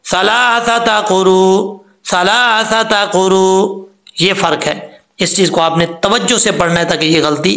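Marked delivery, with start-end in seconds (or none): 0.0-3.9 slow सलासता कुरू with no catch; the wrong version; hamza dropped. Shown as a demonstration. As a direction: let कुरू glide, no hamza. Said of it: "अगर हम हमज़ा छोड़ देंगे".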